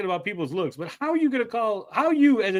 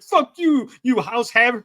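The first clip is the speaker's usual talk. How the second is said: homeless guy yelling; 3 semitones higher, 4 dB louder than usual. Retold or imitated. Mocking a homeless man yelling at someone in a house, hammed-up shouting. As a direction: play it as a hammed-up street rant. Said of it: "homeless guy yelling at someone".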